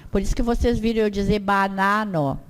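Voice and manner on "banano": "banano" with an open, oral A before N; non-nasal vowel. Shown as a demonstration. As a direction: keep the first two As of "banano" clear, un-nasalized. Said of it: "pra não anasalar".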